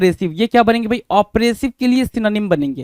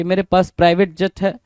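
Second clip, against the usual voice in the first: mock show-off; 4 semitones lower than usual. Show-off listing his jet and cars to friends, low mock boasting. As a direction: lightly act a boaster playing it cool. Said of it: "दिखावा करने in the sense, जैसे देख लो भाई".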